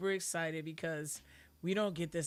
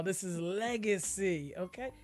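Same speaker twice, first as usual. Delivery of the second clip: ordinary delivery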